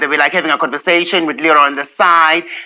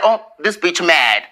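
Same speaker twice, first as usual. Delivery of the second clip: laughing; 2 semitones lower, 3 dB quieter than usual. Real, not acted. Laughing while retelling.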